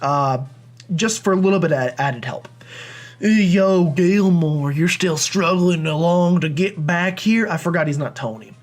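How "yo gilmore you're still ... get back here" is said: put-on a light Southern accent for the rival; drawn-out Southern rival, slow. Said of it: "what kind of Southern accent I wanna give him".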